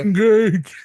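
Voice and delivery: high strained zombie groan. Acted. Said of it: "That's my zombie voice".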